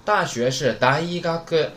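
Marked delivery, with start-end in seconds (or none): 0.0-0.5 大学 in Japanese, daigaku, slow and separate; standalone pitch accent. Shown as a demonstration. Teacher gives university by itself, standalone pitch accent. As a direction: say daigaku for 大学 slowly as its own word. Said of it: "但是连上之后音调变了".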